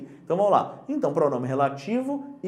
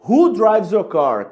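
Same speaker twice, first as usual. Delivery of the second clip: slow correct example; 7 dB louder, much slower than usual. Shown as a demonstration. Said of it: "Eu não pergunto".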